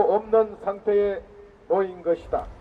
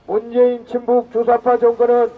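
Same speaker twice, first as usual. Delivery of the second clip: roaring rallying speech. Real, not acted. Rally leader calls crowd chant.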